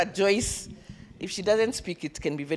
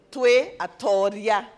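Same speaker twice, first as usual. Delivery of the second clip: louder, slow, proud chant; with power; 2 semitones higher, 6 dB louder, slower than usual. Shown as a demonstration. Leader leads the group in a powerful slow chant. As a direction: proclaim it slowly like conquerors. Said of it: "Say it again with power".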